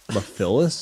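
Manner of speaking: "Mephilas" as muh-FILL-us; mispronounced Mephilas. Retold or imitated. Querying a friend's odd name, mispronounced "Mephilas" as muh-FILL-us. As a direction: put the stress on FIL in "Mephilas". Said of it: "No, it's Mephilas".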